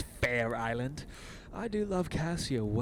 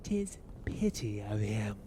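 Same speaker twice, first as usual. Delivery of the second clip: whispering; 4 semitones lower, 5 dB quieter than usual. Acted. Iago confides secretly to Montano.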